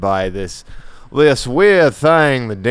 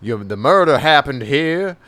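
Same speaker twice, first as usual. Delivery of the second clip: mock Southern drawl. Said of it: "he's doing a Southern drawl".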